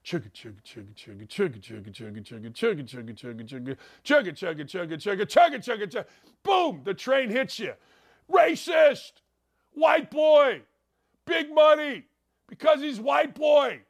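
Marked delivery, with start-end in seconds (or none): 0.0-6.0 imitated train chugging. Shown as a demonstration. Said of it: "That's how you do a train". 8.3-13.8 high, loud mock yells of imagined critics; mock the critics' outrage, shouting; mock outraged shouting. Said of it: "I can hear it now".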